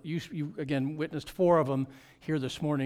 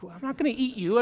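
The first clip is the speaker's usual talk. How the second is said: higher, louder playful reassurance; mock reassuring; 9 semitones higher, 4 dB louder than usual. Pastor teasing a staring child, playful and higher. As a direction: tease the staring kid gently.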